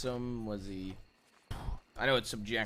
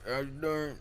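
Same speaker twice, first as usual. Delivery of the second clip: grumbly voice; 3 semitones higher, 4 dB louder than usual. Shown as a demonstration. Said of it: "he was more likely telling me like this".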